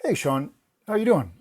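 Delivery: a hint of a friendly star calling; mild imitation of a famous caller greeting the assistant; Tom Cruise on phone. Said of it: "This voice goes".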